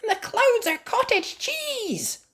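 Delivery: very high breathy whispered wonder; gasped whisper. Acted. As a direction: gasp it out in awe. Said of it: "gasped Susie Sheep".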